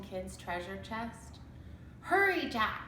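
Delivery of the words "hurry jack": higher urgent call; cried. A narrator's reading. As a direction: urge him from the ladder. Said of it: "cried Annie".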